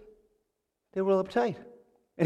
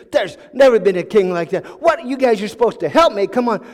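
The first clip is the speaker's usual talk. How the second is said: louder, exasperated protest; really upset; 3 semitones higher, 6 dB louder than usual. Acted. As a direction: protest as if you are being mocked. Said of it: "he got really upset".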